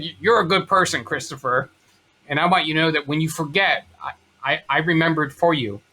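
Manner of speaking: understated emotion in mom's voice; emotional mother imitation. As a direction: reassure your son, a touch choked by emotion. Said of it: "sorry, I'm gonna get emotional".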